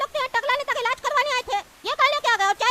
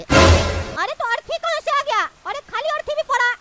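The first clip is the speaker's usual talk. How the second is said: surprised; 2 semitones higher, 5 dB louder than usual. Acted. Young man sees the funeral bier.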